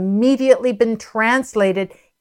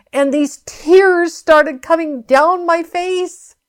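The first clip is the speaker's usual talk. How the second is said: tag; 8 semitones higher, slower than usual. Real, not acted. Moved retelling of tears of joy.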